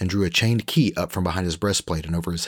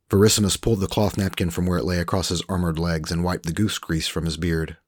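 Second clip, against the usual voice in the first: usual speaking voice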